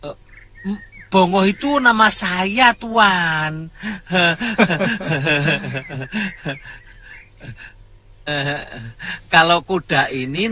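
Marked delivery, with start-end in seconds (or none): 3.7-6.5 long giggling laugh; servant's chuckle. Acted. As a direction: chuckle away at your own silly mix-up. Servant chuckles over his own name. (tawa terkekeh-kekeh)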